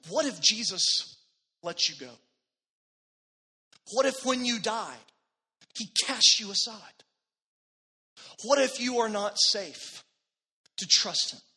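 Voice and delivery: loud, high, pressing questions; provoking challenge. Retold or imitated. Pastor challenges the dying woman loudly and high. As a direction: push hard with each question to rouse her.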